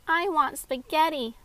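loud, high, slow announcement; announcing. A narrator's reading. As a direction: declare it proudly, stretched out. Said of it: "Maxie announced".

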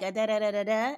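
lightly voiced toddler babble; string out da-da syllables like a baby; mimicked baby babble. Dad copying his daughter's babble, lightly mimicked. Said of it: "he mimicked it like".

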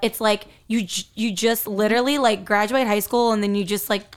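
talking around ice in mouth. Real, not acted. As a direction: talk with ice in your mouth. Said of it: "I have ice in my mouth".

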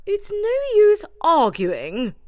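high, firm mouse voice; Judith firm. A narrator's reading. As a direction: end the argument. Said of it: "said Judith".

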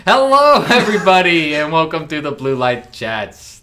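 big booming host greeting; announcer voice. Pretend. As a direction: welcome everyone like a show host. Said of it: "Why do you always do that voice?".

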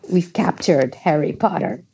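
gleeful werewolf shout of victory; triumphant roar. Acted. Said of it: "Greyback roared triumphantly".

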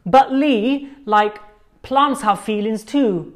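high, mock whiny objection; mocking quote. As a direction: parrot the annoying dinner-table line. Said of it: "it goes something like this".

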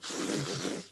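frantic spluttering spit noise; mimed spitting sound; imitated spitting. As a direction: splutter as if spitting out something foul. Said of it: "I'm trying to spit out".

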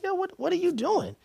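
retold alarm. Retold alarm at being cuffed.

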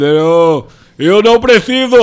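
put-on loud, high childish refusal; Bolsonaro. Host mocks Bolsonaro answering Boris Johnson, childish voice. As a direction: refuse like a stubborn little kid. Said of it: "conversando com uma criança".

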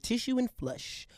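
mock reverent announcement; slow savoring. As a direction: savor it like a discovery. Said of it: "I said".

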